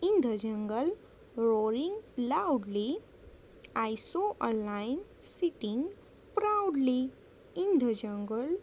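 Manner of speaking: slow, measured poem reading for pupils; slow classroom recitation with drawn-out line endings; poem read aloud. Shown as a demonstration. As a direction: recite it very slowly, stretching out each word.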